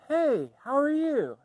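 high, slow little pig greeting; a lightly voiced, squeaky-pitched pig at the door. Third pig greets the wolf.

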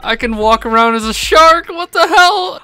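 high, slow words squeezed out while laughing; delighted disbelief, cracking up; laughing about being a flying shark; hysterical laughter. Real, not acted. Turned into a shark.

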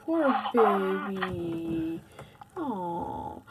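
put-on drawn-out tender baby talk; cooing sympathy. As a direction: coo it like comforting a toddler. Dad soothes child in pretend play.

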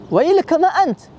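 high, drawn-out shocked question; mock-startled exclamation in Arabic; acted startled surprise. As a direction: imitate someone taken aback, pitch leaping up. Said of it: "Kaget dia".

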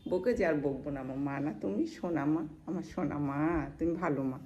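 tender soothing. Real, not acted. Soothing a sulking pet after scolding.

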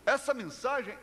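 proclamação de pregador, subindo no agudo; pregação enfática. Real, not acted. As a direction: proclame com convicção, alongando o final. (pregação convicta, voz mais aguda)

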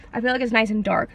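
talking while chewing gum. Real, not acted. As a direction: talk around a piece of gum. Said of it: "Sorry, I'm chewing gum".

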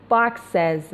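باکسز ending in a voiced "ez" syllable; ez plural ending. Shown as a demonstration. Teacher giving an example after x, باکسز with clear "ez" ending.

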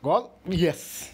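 triumphant cheer. Real, not acted. Gamer scoring in the ninetieth minute, loud cheer. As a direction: cheer the last-minute goal. Late winning goal.

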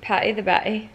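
playful stab at an Irish accent. Shown as a demonstration. Showing a friend an accent, mock Irish. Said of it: "I would do Irish".

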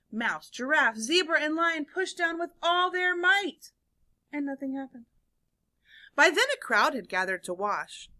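animated story reading with swooping emphasis and hushed letdowns; read-aloud storytelling. A narrator's reading. Teacher reads seesaw story to children, animated storytelling. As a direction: read it to young listeners with suspenseful pauses.

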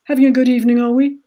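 loud barking army sergeant; drill sergeant. A narrator's reading. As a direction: bark it like a parade-ground sergeant. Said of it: "he barked".

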